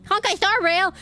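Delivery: high, drawn-out title cry; mock-epic shout; hammed-up exclamation. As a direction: belt out the name like a big title drop. Reading game dialogue, hams up title.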